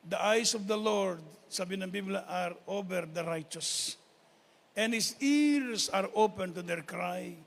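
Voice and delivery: slow, solemn Bible recitation; scripture reading. Acted. Preacher reciting a verse to the congregation, slow and solemn. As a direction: read the verse out slowly and deliberately.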